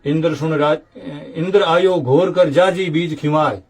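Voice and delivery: measured, rhythmic recital of devotional couplets; verse recitation. Acted. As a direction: recite the old verses line by line, lifted and metrical. Recites verses about Indra.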